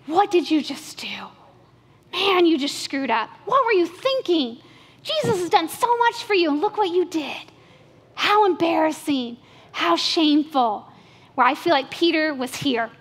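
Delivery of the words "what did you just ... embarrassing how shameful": a hint of hushed, ashamed self-reproach; self-scolding inner voice. Peter scolding himself, mildly hushed and ashamed. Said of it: "saying things to himself like".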